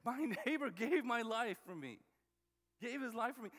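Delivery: amazed and grateful, with a little laugh; heartfelt. Retold or imitated. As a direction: tell it like you can hardly believe it. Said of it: "You wouldn't just say".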